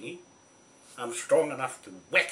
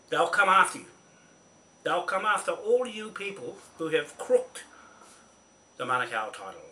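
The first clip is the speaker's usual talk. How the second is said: higher, louder warning; angry threat; 4 semitones higher, 4 dB louder than usual. Real, not acted. Warning the crooks on video, loud angry threat. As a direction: hurl the threat.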